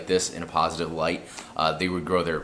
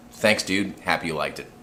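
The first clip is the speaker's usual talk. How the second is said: dry sarcastic thanks, a bit louder; super sarcastic; 4 dB louder than usual. Retold or imitated. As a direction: thank them with heavy sarcasm. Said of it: "be super sarcastic".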